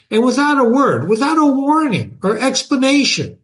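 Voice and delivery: animated first-person reading with lively pitch swings; storyteller voicing an aggrieved narrator; dramatic story narration. A narrator's reading. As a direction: read it aloud expressively, pausing between phrases. Reads the story aloud in first person.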